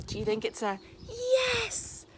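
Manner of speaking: put-on high, sing-song question to kids; playful question. Shown as a demonstration. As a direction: lift it up high and teasing. Teacher asks the class.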